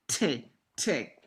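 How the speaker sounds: "te, te" with a hard, aspirated American T. Shown as a demonstration. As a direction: pop the t in "te" the American way. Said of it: "American T".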